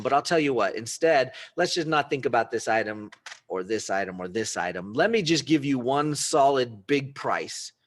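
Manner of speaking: a picker hyping up his offer; pumped-up salesman pitch; eager buyer pitch. Acted. Buyer bundles items into one deal.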